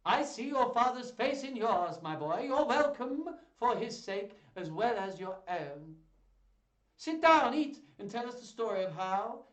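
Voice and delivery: very loud, high, hearty declamation; booming duke. A narrator's reading. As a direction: boom out a grand welcome, far too loud. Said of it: "I'm too loud now".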